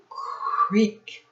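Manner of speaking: breathy, voiceless creak of the bed; creaky bed sound. A narrator's reading. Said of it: "said the bed".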